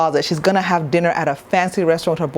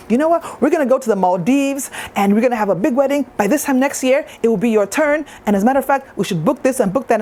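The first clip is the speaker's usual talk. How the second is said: lightly voiced thrilled auntie, pitched high; a hint of a Nigerian auntie planning the wedding; excited auntie; 5 semitones higher than usual. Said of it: "And she was like".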